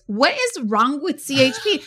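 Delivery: real exasperation. Real, not acted. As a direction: vent in disbelief at the system. Her own outrage at failed transfers.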